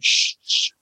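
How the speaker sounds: whispered shh, shh; mock whisper of hiding colleagues; hushed shush. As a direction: hush him like a secret. Colleagues hushing him in theater.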